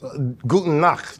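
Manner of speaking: "guten Nacht" slow, with extra throat in the ch; overdone German ch. Shown as a demonstration. Learner copying the German, "guten Nacht" with an exaggerated ch. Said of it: "what is that extra thing you doing".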